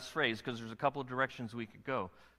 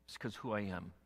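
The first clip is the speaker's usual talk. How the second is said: slow solemn voice of God; 5 semitones lower than usual. Acted. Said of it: "God was very clear".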